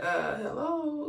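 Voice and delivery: high, drawn-out singsong nudge; mock attention-seeking. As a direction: play a nagging toothache calling for notice. Aching tooth voiced demanding attention.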